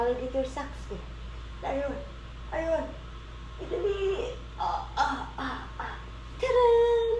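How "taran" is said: excited ta-da. Real, not acted. Presenting food to toddler.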